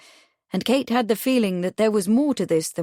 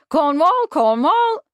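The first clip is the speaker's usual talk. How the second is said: high, louder squawking parrot; chuckling parrot; 9 semitones higher, 7 dB louder, slower than usual. A narrator's reading. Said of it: "chuckled the parrot".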